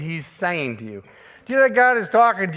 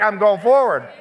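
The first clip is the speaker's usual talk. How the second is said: preaching shout; 2 semitones higher than usual. Real, not acted. Preacher proclaiming he never looked back, shouting. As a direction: declare it with full force.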